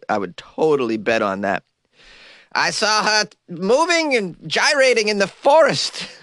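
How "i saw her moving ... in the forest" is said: high, hammed-up witness denouncing a witch; witch accuser. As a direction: testify in a raised, theatrical mock voice. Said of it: "they were gonna say you were a witch".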